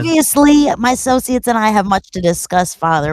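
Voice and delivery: smooth, measured negotiator voice; calm hostage negotiator. Acted. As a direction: talk them down like a diplomat. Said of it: "puts on her best, like, negotiator voice".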